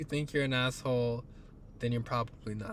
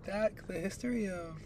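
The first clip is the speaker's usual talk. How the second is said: objecting Brit; 7 semitones higher than usual. Acted. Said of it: "all the Brits that listen are gonna be like".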